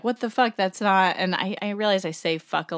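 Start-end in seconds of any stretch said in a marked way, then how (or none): 0.0-1.1 mildly indignant retold outburst, pitched up; mock anger. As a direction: act out her anger, lightly. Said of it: "Sandy gets angry 'cause she's like".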